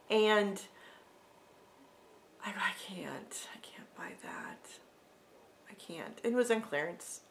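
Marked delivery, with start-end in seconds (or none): 2.5-6.2 hushed whisper, talking herself out of it; whispered inner thought. Retold or imitated. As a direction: whisper it to yourself, tempted but firm. Inner debate at clearance ring.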